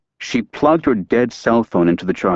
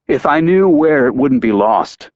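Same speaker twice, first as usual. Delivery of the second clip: impatient; 4 semitones higher, 4 dB louder than usual. Acted. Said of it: "With impatience".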